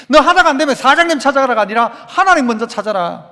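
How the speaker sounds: emphatic, driving sermon delivery; forceful preaching. Acted. Preacher urging the congregation to seek God, forceful preaching. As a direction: press each phrase home like a preacher.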